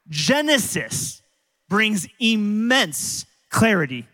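slow emphasis. Real, not acted. Pastor stresses the key point.

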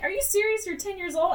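hammed-up incredulous adults; mock disbelief. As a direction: act stunned at the kid. Voicing the shocked Justice League.

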